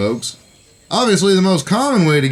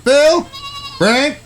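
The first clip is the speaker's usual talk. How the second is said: lightly raised, courtly frontier voice; gallant cowboy. Acted. Brother escorting the lady to the hotel, gallant and polite. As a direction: play the gentleman for the lady. Same high character voice.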